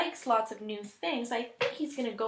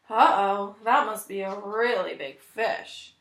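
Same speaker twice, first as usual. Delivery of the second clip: surprised king; 6 dB louder than usual. Acted. King reacts to tug on line.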